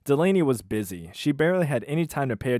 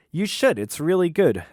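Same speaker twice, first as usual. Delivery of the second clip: higher, louder enthusiasm; eager Delaney; 6 semitones higher, 5 dB louder than usual. Acted. Waitress to the president, higher eager encouragement. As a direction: urge him to try it. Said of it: "I'll do the voices".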